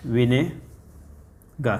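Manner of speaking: विनेगर stretched slowly and softly; slow drawn-out विनेगर. Shown as a demonstration. Teacher stretching विनेगर slowly for students to repeat. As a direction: draw out विनेगर syllable by syllable. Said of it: "बोलते हैं विनेगर".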